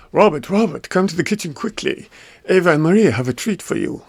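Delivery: high-pitched, excited little sisters luring him; sisters calling. Acted.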